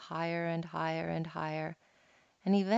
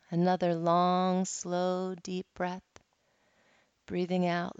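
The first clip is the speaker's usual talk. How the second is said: guided meditation. Acted. Resumes guided meditation after anecdote.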